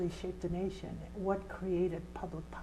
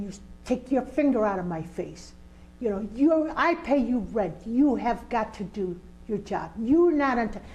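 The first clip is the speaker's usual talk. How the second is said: firm confrontation; 2 semitones higher, 6 dB louder than usual. Retold or imitated. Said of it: "She wasn't screaming at him".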